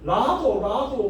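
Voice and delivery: drawn-out, mock-scornful jeer. Gyeongsang people slighting Jeolla folk, mock-scornful and drawn out. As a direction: imitate someone looking down on a regional name. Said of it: "그러면서 무시하더라고".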